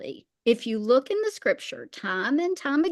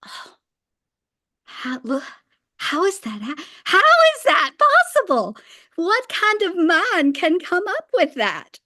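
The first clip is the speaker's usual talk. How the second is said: high, loud, astonished disbelief; gasping in amazement at a brilliant mind; awestruck wonder; 6 semitones higher, 4 dB louder than usual. Retold or imitated. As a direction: marvel at it as if it can't be real. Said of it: "then the awe".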